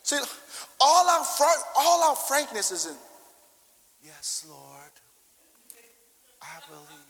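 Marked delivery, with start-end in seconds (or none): 4.0-7.0 tiny, much softer lower mock murmur; mock timid prayer. Pastor mocking a timid believer's prayer, meek and soft. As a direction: parody a meek half-hearted prayer.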